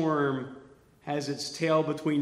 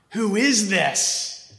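higher, slow, awed who is this; slow awed question, higher; amazed question; 5 semitones higher, 4 dB louder, much slower than usual. Shown as a demonstration. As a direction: marvel at Jesus.

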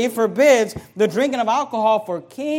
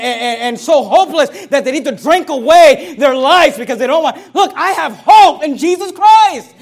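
much louder, higher, slowed preaching shout with laughter; fiery shout; 8 semitones higher, 11 dB louder than usual. Real, not acted. Preacher shouting to the congregation about his hope, much louder and higher. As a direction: roar it out with joy.

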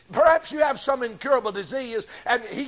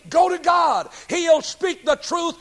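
preaching shout; 6 semitones higher than usual. Real, not acted. Preacher urging listeners.

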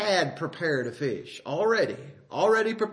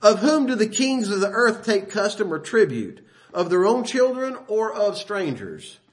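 higher and louder, declaiming the scripture; emphatic preaching; 5 semitones higher, 5 dB louder than usual. Shown as a demonstration. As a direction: proclaim Jesus' words with full force. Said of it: "But he said this".

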